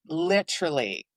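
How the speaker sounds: "literally" slowly, as crisp LIT-er-ally; Canadian pronunciation. Shown as a demonstration. Showing co-host a Canadianism, "literally" slow with crisp T. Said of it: "Canadians also say".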